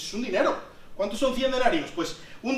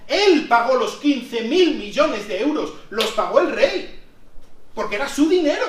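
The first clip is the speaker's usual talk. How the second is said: emphatic insistence; 3 semitones higher, 6 dB louder than usual. Real, not acted. Preacher to congregation, louder emphatic insistence. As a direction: drive home that the king paid.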